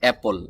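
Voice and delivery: অ্যাপল with a short "a" as in cat; correct pronunciation. Shown as a demonstration. Teacher models অ্যাপল for learners, correct pronunciation. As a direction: say অ্যাপল as a crisp model word. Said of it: "এটাকে আমরা সঠিক উচ্চারণ করব".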